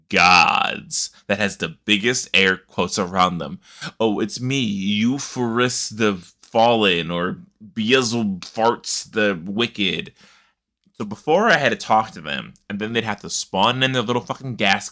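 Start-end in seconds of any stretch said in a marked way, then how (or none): 4.0-10.1 mock grand god. Mocking pompous game gods.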